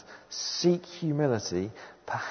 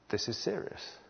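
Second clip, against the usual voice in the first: hushed, much softer acted thought; sobered realization; 9 dB quieter than usual. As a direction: think it aloud, quietly taken aback. Imagined sobered reaction of God's people.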